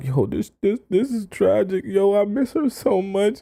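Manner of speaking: high mopey lovesick moan. Acting out a man missing his ex, imitating a man lamenting. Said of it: "goes all the way downhill to where he's like".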